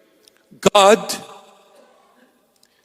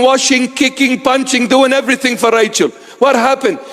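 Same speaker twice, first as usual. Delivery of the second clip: hammed-up scolding mother; 5 semitones higher than usual. Mother scolds son over Rachel.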